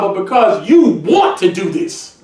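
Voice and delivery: preaching shout. Real, not acted. Preacher drives home point.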